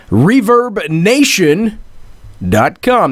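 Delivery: reverb nation, slowly and clearly; spelled out slowly. Shown as a demonstration. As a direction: lay out reverb nation dot com word by word. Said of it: "That's reverb nation dot com".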